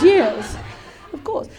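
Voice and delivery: mock English reply; English accent. Partner agreeing politely, mock English accent. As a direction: answer in a put-on English accent. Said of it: "like, the English accent".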